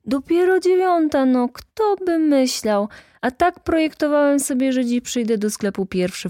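high, loud theatrical amazement; animated clerk astonished at the hour; exaggerated surprise. A narrator's reading. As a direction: exclaim it high, drawing out the wonder.

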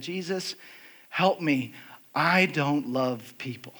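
soft, halting retold prayer; hushed confession. Speaker confessing to Jesus at the microphone, hushed. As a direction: confess it quietly, with pauses between phrases.

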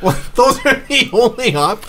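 high-pitched disbelief; acted incredulous objection. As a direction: protest the choices, voice jumping way up. Caller balks at absurd survey options.

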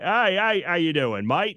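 badly faked Australian greeting; attempted Australian accent. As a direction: try an Aussie accent and miss toward English. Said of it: "he's from Australia, so I can't really do".

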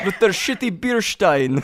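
slow mock Russian accent. Gamer complaining about the Germans, Russian accent. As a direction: grumble in a comic Russian accent. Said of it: "You want me to give Russian accent now?".

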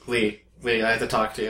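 low, softened voice, taking someone aside; quiet aside. Retold or imitated. Retelling a word with Lee about pronunciation, hushed aside. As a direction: drop it down for a discreet word.

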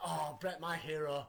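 soft, hushed little fan; quietly imitated starstruck child; adoring kid. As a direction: murmur it to your hero in mock awe. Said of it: "It's like".

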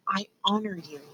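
hushed ritual whisper. A narrator's reading. Furlough quietly honoring his brother, whispered. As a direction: breathe it out, barely voiced. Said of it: "whispered Furlough".

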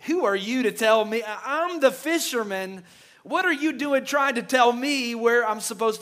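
a hint of a hothead bristling, mock offended; indignant retort. Peter, imagined, snaps back at Jesus over fishing advice, mildly indignant.

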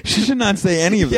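put-on high Japanese accent voice; lightly put-on Japanese accent.

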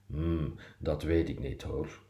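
hesitant reply. Acted. Hesitant reply in acted dialogue.

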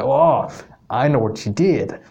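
hammed-up evil genius with a poor Canadian accent; bad Canadian accent. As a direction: attempt a sly, knowing Canadian accent. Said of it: "that's the worst Canadian accent".

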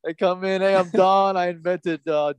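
lightly voiced crypto bro; a hint of a smug tech founder; crypto bro impression. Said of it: "then he's like".

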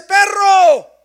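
loud, high stinging word; a sharp, loud reproach; harsh rebuke. Acted. Jesus voiced rebuking woman.

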